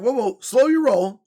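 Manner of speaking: mock alarmed pushback. Pushing back at the insurer.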